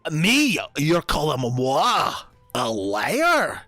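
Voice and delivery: hammed-up indignant disbelief; mock outrage. Onyx, called a liar, plays mock-shocked indignation. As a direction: act scandalised at the word liar.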